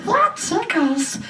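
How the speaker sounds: high, slow toy voice; tickled toy, drawn out and high; Elmo. Acted. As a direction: squeal it like a giggling doll. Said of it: "you touch it, it goes".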